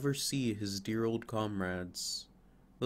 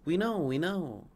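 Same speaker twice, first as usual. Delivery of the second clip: higher, chirpy bird voices; chirping sparrows; 6 semitones higher, 3 dB louder than usual. Acted. Sparrows eager to tell the fir a secret. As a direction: chirp it like eager little birds. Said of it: "chirped the sparrows".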